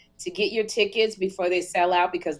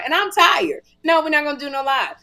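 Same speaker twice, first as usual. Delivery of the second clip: retold refusal; 7 semitones higher, 3 dB louder than usual. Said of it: "And he was like".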